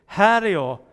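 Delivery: loud answering call. Acted. Samuel comes to Eli a second time, calling out. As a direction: announce yourself loudly.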